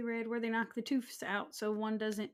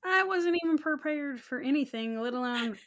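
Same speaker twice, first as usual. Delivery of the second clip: louder, higher, protesting that she was caught off guard; real bewilderment spilling out; flustered protest; 4 semitones higher, 6 dB louder than usual. Real, not acted. Cohost protesting the surprise song, loud and flustered.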